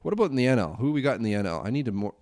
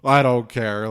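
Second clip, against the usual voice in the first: louder, hammed-up careless ballplayer; mock the players shrugging off nine hours of baseball; jokey voice of a careless baseball team; 4 semitones higher, 7 dB louder than usual. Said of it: "it's like".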